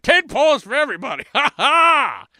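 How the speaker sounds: put-on fast, high, loud Chinese accent shouting; mock Chinese seller shouting to everybody. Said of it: "That's my Chinese accent".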